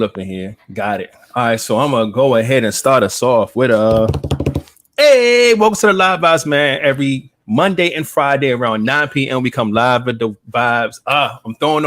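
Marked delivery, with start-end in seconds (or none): 5.0-6.8 loud, high show opener; hype host intro. Acted. Opening the live show.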